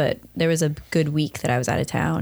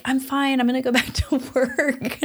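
breezy denial; 8 semitones higher than usual. Retold or imitated. Jenny insisting she's fine.

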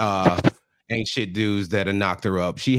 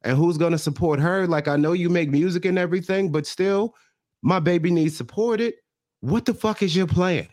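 going off; 4 semitones higher than usual. Retold or imitated. Mother grilling the boyfriend about supporting the baby, going off. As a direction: imitate a mother's tirade, climbing in pitch. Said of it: "she's going off about".

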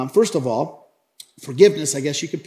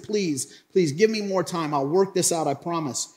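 mildly acted plea; a touch of pleading for more time; begging; 2 semitones higher than usual. Servant asks the master for more time, mildly begging. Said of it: "he begged for some time".

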